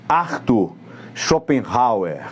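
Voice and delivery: Arthur Schopenhauer, syllable by syllable; slow careful pronunciation. Shown as a demonstration. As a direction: say Arthur Schopenhauer slowly and clearly. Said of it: "Nome difícil".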